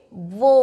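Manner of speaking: वो low, with the "oh" held; teacher's model वो with a stretched "oh"; long O sound. Shown as a demonstration. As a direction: draw out वो as "vohh". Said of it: "तो इसको हम बोलेंगे".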